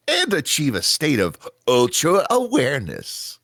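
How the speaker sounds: punchy ad-read pitch; commercial announcer. Acted. Announcer pitching Hyper Sober to tired Taki, ad-read style. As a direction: sell it like a TV spot.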